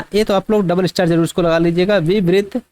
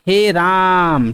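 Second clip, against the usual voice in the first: drawn-out exclamation; much slower than usual. Shown as a demonstration. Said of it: "तीन गुना समय तक खींच रहे हैं".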